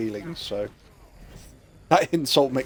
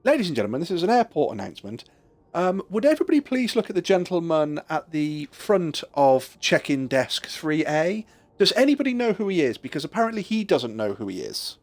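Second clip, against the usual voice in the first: airport announcement; 5 semitones higher than usual. Retold or imitated. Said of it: "picks up the microphone and says".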